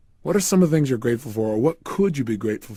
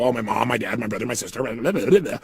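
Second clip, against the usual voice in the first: mock reeling off a list without feeling; rote, unfeeling list; 2 semitones lower than usual. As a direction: rattle it off lightly, trailing into blahs. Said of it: "And don't just go".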